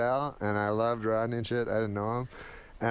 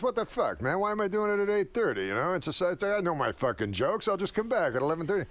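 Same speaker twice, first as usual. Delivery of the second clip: high, whiny Rodney complaint; Rodney gripes about dress rehearsal; Rodney impression; 7 semitones higher than usual.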